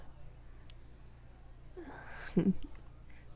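short breathy chuckle; quiet, teasing huff of laughter; taunting chuckle. Acted. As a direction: laugh softly under the breath. Amused at partner's neediness.

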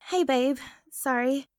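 normal talking voice

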